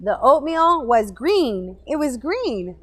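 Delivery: slow and loud disgust. Retold or imitated. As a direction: drag it out, grossed out. Disgust at moldy food.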